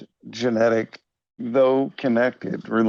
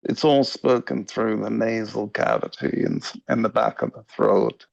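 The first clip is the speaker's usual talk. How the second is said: rough Liverpool accent through the nose; half-successful Liverpudlian accent from nose and throat; attempted Liverpudlian accent. Shown as a demonstration. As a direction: demonstrate a nasal Scouse accent, imperfectly. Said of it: "I'm not doing a good job of it right now".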